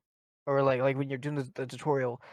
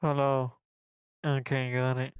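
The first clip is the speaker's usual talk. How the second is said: default nose clench. Shown as a demonstration. Repeating game lines on request, default nose clench. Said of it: "let's hear your default nose clench".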